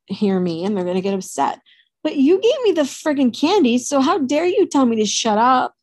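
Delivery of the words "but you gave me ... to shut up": higher-pitched, mildly outraged comeback; indignant retort. Retold or imitated. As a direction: throw the blame back at mom, affronted. Indignant retort to mom retold.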